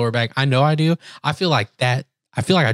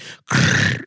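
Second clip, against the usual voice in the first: rough rattling crunch noise; throaty crackle standing in for a popping spine; imitated back crack. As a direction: mimic a big back crack. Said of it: "you hear this big one".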